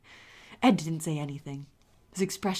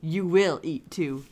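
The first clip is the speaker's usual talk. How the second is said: stern; 5 dB louder, slower than usual. Acted. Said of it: "tone down stern".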